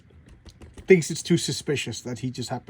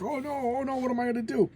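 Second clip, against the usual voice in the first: mock panic; 10 semitones higher than usual. Reviewer voicing the creator as the creature attacks, mock panic.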